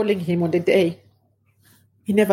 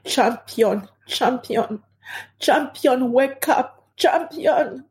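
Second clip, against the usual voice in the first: retold screaming; 5 semitones higher, much slower than usual. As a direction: imitate screaming to wake someone, voice held back. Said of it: "Then I was screaming".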